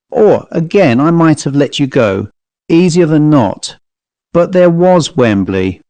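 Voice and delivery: lightly voiced Cockney manservant, reasoning aloud; composed Cockney servant. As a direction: muse with contained feeling.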